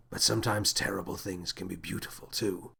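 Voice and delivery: low and softened; soft-spoken. A narrator's reading. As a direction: speak gently under the voice. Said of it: "the captain said softly".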